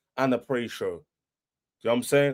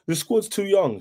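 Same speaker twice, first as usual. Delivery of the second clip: higher, whiny mock rival fan voice; mocking the haters; 6 semitones higher than usual. Fan mimicking rival haters with a whiny mock voice. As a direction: sneer their words back in a silly voice. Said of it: "When everyone was like".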